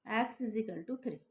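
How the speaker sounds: slow, word by word, so students can copy; slow dictation pace. Shown as a demonstration. Teacher dictating to her class, slow and spaced. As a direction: dictate it slowly for the notebook. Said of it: "first point बना लिख दो".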